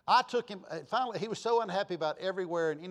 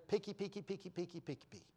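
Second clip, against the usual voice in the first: soft rapid patter, fading away; fussy picking; 2 semitones higher, 10 dB quieter, faster than usual. Retold or imitated. Host mimicking a guest going through his order, fussily muttered. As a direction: mimic finicky picking, dropping in pitch as it fades.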